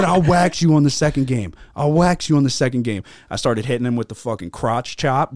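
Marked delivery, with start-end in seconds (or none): 0.0-3.0 high, loud mock threat; imitating mad opponent. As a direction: threaten a rematch like a riled-up sore player. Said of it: "He's getting so mad".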